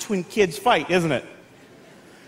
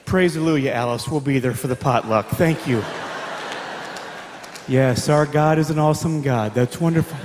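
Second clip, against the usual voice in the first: much lower, syrupy church-lady tone; sweet churchy phone voice; 9 semitones lower, 4 dB quieter than usual. Retold or imitated. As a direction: gush politely to a church friend. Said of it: "while she's on the phone".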